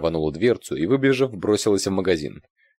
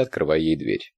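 ordinary delivery, nothing marked

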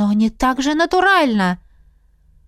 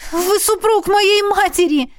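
much higher, fast outraged protest; a scandalised young woman; shocked girl; 9 semitones higher, 3 dB louder than usual. A narrator's reading. Heroine protests.

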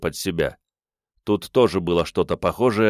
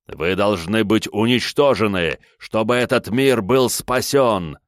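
fanatical; 3 semitones higher, 3 dB louder than usual. Acted. Villain declaring shamans must die.

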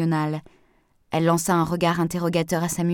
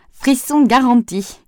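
spooky; 6 semitones higher, 7 dB louder, slower than usual. Acted. Joking about the ghost-train night.

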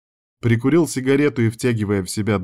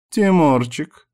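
higher, sugary woman's coo; 7 semitones higher, 4 dB louder, slower than usual. A narrator's reading. Vika phoning her former flirt, cooing. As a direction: coo the pet name sweetly. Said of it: "проворковала Вика".

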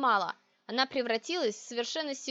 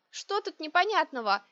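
higher, puzzled question; sincere surprise; 6 semitones higher, 3 dB louder than usual. A narrator's reading. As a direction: ask it in honest bafflement. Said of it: "В свою очередь искренне удивилась я".

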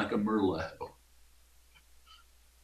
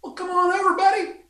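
high excited call-out; excited high announcer; 5 dB louder, much faster than usual. Acted. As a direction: call out to the crowd.

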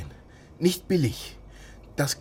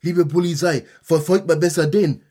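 mock letter; 6 dB louder than usual.

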